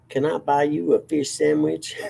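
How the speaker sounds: Ladies Man quote. Retold or imitated. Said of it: "anyone seen the show The Ladies Man".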